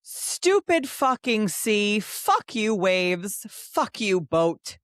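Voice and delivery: mildly hammed-up cursing, drawn out slowly; lightly acted seasick grumbling. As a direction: curse each thing in turn with mock spite. Reads the seasick heroine's cursing.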